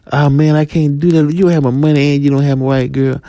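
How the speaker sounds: high, quick refusal; refusing partner. Acted. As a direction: shut it down fast.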